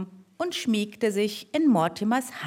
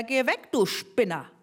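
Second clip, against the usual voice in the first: mild angry shout. Acted. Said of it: "brüllte er".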